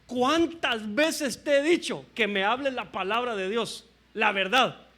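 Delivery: retold angry king. King demands truth from the prophet, mock anger. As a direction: scold as an imitated annoyed king. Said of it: "Al punto que Acab se enoja".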